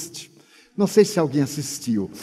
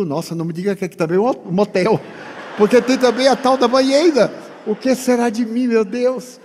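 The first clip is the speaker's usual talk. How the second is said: laughing mock alarm; 4 semitones higher than usual. Mock alarm about the bathtub.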